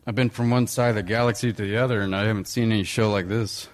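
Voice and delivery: imitating a cocky space smuggler, lightly voiced; understated smuggler-pilot impression; Han Solo. Shown as a demonstration. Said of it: "give me a little Han Solo first".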